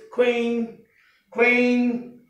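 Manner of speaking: "queen" with an aspirated k into w; correct pronunciation. Shown as a demonstration. Teacher repeats the right word, correct pronunciation. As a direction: say "queen" as kh-ween, drawn out. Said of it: "The word is queen".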